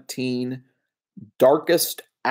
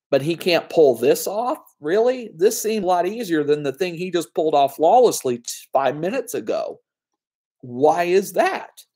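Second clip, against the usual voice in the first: mock disbelief, pitch climbing on the questions; incredulous viewer; 4 semitones higher than usual. Reviewer voicing a puzzled viewer's mild mock disbelief. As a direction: poke holes in the plot with a raised eyebrow.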